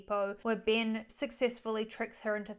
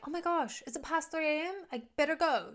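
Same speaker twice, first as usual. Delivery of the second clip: put-on higher, airy model girl voice; ditzy model girl; 5 semitones higher than usual. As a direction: play the ditzy model leaving. Model girl leaving the party.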